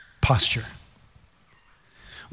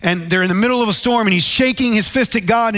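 ordinary delivery

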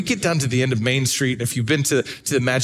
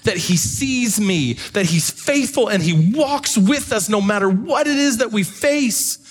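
impassioned preaching; 7 semitones higher than usual. Acted. Preaching climax builds.

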